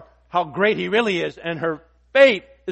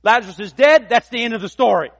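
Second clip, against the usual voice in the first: doubters' despair; 4 semitones higher, 6 dB louder than usual. Retold or imitated.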